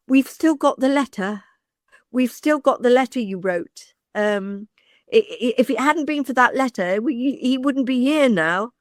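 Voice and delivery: retold earnest thanks, lifted and emphatic; heartfelt gratitude. Actor's mum to the agent at the anniversary, grateful.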